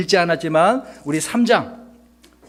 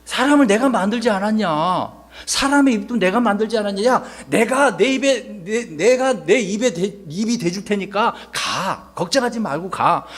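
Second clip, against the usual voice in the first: scolding God, a touch raised in pitch; mild acted anger; 4 semitones higher than usual. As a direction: press each point with mild annoyance. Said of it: "하나님께서 자꾸 화내시는 거야". (살짝 화내며 나무라는 말투)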